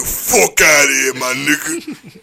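slow New York smoker's rasp; raspy New York woman. Retold or imitated. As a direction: do a raspy cigarette-voiced New Yorker. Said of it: "With the raspy cigarette voice".

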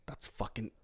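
retold whisper of recognition; soft, stunned half-whisper; hushed disbelief. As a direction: whisper it, as if just spotting someone. Retells stunned recognition in club.

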